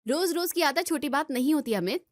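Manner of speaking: irritated scolding. Acted. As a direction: push back hard on the excuse. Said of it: "सुबह सुबह क्यों चिल्ला रहे हो". (चिढ़कर हल्की ऊँची आवाज़ में झगड़ना)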